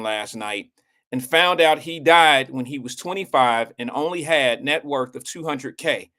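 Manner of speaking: reading aloud with a retainer in; words a little thick from the retainer; wearing a retainer. Real, not acted. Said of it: "I have my retainer in".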